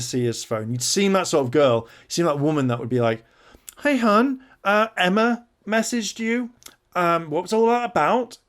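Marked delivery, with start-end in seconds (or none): 3.8-8.4 put-on high, sing-song needy girlfriend voice; mock suspicious girlfriend. Mocking the girlfriend questioning James about messages, high sing-song. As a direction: play the prying partner sweetly accusing.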